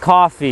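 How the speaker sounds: "Coffee" with an open ah, KAH-fee; "Coffee" as KAH-fee, firmly stated; speaker's own pronunciation. Shown as a demonstration. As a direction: say "Coffee" open-vowelled, as on the West Coast. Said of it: "the same way I say it".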